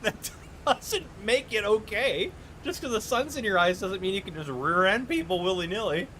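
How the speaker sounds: slow, laughing, exaggerated scolding of the driver; blunt mock scolding. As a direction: lay it on thick, half laughing at her. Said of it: "I didn't quite say it like that".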